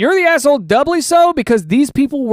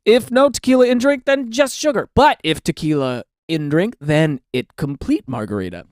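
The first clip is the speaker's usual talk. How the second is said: caveman logic voice; 4 semitones lower than usual. Pretend. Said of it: "as a guy who has the same thought".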